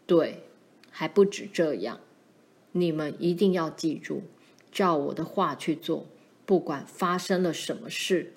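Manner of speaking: lightly voiced low father; a hint of grave fatherly authority; stern father. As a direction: lecture the children firmly, pitched low. Father warns his children.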